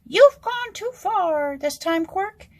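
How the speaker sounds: a king losing patience; growled. Acted. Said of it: "he growled".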